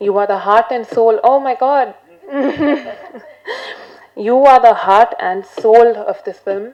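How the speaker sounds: emotional, close to tears; holding back tears; choked up. Real, not acted. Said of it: "I'm gonna cry".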